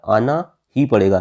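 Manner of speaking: "आना ही पड़ेगा" slow, weighted on ही; stress on ही. Shown as a demonstration. Teacher repeating the emphatic particle for students, stressed ही. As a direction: press firmly on ही. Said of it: "बलपूर्वक कही जाती है".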